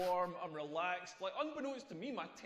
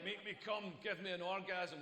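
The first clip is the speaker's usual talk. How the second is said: Scottish man voice. Retold or imitated. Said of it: "why she sounds like a Scottish man".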